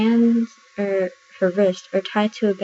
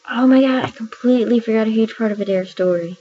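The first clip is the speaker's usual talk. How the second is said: higher, louder jolt of remembering; sudden realization; 3 semitones higher, 4 dB louder than usual. Real, not acted. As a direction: burst in as it suddenly hits you. Suddenly remembers forgotten plot point.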